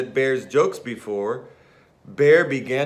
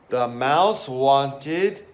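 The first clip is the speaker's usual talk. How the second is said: slow reveal; 4 semitones higher, much slower than usual. Shown as a demonstration. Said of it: "revealing the answer slowly".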